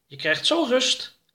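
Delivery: very high, slow, soothing alien voice; calm the grumbling ship down; alien Oroka reassuring. Acted. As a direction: Oroka promises the ship a rest soon. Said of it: "antwoordde Oroka".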